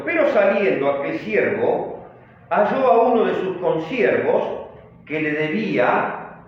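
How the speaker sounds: measured, emphatic Bible reading; scripture reading. A narrator's reading. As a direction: read the verse out firmly to the congregation. Reads the scripture verse aloud.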